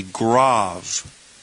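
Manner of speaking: "grave" said grahv, with an open ah; corrected pronunciation. Shown as a demonstration. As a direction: rhyme "grave" with suave. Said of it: "Don't say grave".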